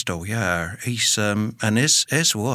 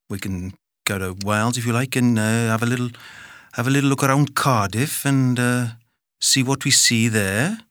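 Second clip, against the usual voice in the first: put-on Welsh accent. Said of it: "have a stab at most British accents".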